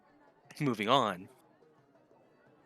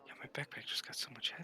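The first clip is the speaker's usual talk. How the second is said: whispering; 12 dB quieter, faster than usual. Real, not acted. Joking aside.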